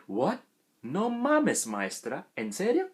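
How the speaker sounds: acted-out disbelief at the teacher; mock-shocked, pitch jumping up; incredulous. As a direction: question it in playful disbelief. Acts out shocked reaction to teacher.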